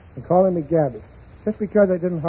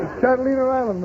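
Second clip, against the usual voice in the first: laughing correction; 6 semitones higher than usual. Real, not acted. Correcting Frank while laughing.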